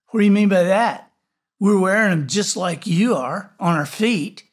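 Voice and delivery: put-on loud, fast, indignant girl; angry. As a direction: snap it back defensively. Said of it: "She looked mad".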